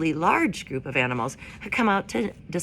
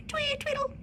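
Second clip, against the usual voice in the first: birdlike twee tweedle; 5 dB quieter than usual. A narrator's reading. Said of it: "their song just sounded".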